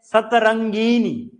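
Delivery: slow, careful सतरंगिनी with the extra syllable; teacher drags out सतरंगिनी to show the mistake; wrong form said. Shown as a demonstration. Teacher shows the class the wrong form, slow and careful. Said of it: "सतरंगिनी नहीं होता".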